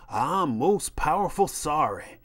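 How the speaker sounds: slow, mocking servile apology; sarcastic servile line; mock grovelling. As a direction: parody begging on your knees, drawn out. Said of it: "get down on my knees and say".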